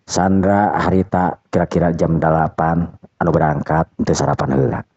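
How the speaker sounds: usual speaking voice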